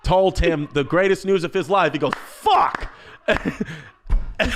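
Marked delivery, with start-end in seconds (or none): 2.1-2.9 breathed, voiceless curse; mock whispered curse. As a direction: hiss it under the breath. Dad's curse retold.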